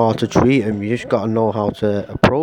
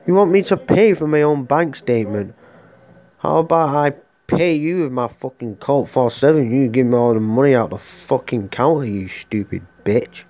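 mock furious retort; 3 semitones higher than usual. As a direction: snap back at the clerk, hammed up. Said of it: "I'm like".

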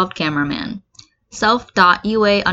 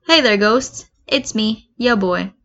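deadpan; 3 semitones higher, slower than usual. Acted. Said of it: "in a complete deadpan".

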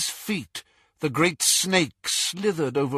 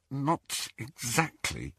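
slow, softer, hesitant answer; uncomfortable; 6 dB quieter, slower than usual. Acted. Friend reluctant to tell a man about his ravings, uncomfortable. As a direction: hedge it awkwardly, taking time. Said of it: "said Hermione uncomfortably".

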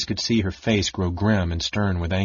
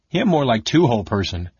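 mumbling through a mouthful of bread; muffled voice; 2 semitones higher than usual. Acted. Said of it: "mumbled Bupu in a muffled voice".

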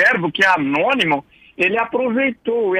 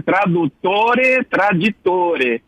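slow Italian delivery of "Tradutore, traditore"; Italian pronunciation; much slower than usual. Shown as a demonstration. Professor quoting the proverb as Italians say it, slow Italian pronunciation. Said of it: "os italianos dizem".

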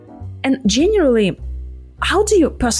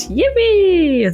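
excited cheer; 11 semitones higher, 5 dB louder than usual. Real, not acted. Cheering over no skyscrapers.

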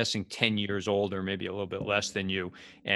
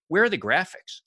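higher, louder puzzled question from the son; 9 semitones higher, 5 dB louder than usual. Retold or imitated. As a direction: sound baffled that the graphics are missing. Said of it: "he's like".

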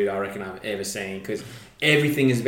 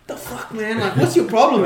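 mock Serra; 9 semitones higher than usual. Retold argument, Serra's reply.

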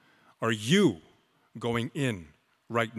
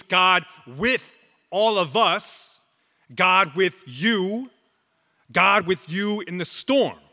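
loud, higher proclamation of "God with you in the storm"; proclaimed; 4 semitones higher, 3 dB louder, slower than usual. Real, not acted. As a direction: call "God with you in the storm" out to the congregation, raised and strong. Preacher proclaims, then repeats softly.

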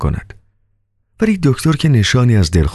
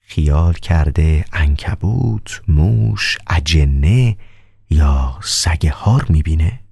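calm doctor; much slower than usual. Acted.

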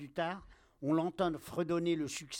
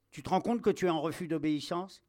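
quick, louder, indignant challenge; indignant officer; 2 semitones higher, 5 dB louder, faster than usual. Acted. Captain confronts soldier who refuses to obey, indignant. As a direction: challenge a disobedient soldier, fast.

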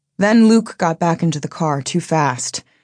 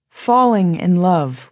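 slow and deliberate; slower than usual. Retold or imitated. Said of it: "we said".

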